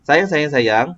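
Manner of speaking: "sayang, sayang, sayang" as a phrase with a tune; with intonation. Shown as a demonstration. Teacher demonstrating to a student, "sayang, sayang, sayang" with intonation. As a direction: give "sayang, sayang, sayang" shape, not a list. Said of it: "Kalau kita ada intonasi, contohnya".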